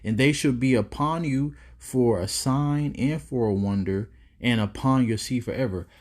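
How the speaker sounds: measured reading from the Bible; scripture reading. Acted. Preacher reading Deuteronomy aloud to his viewers, measured reading. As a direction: read the curses out like a preacher.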